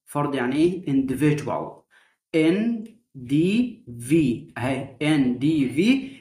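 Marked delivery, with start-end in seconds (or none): 2.4-6.1 ان دي في spelled out slowly; syllable split. Shown as a demonstration. Teacher splitting individual into syllables. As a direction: break it into in-di-vi. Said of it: "الدي واليو دول بنطقها ج".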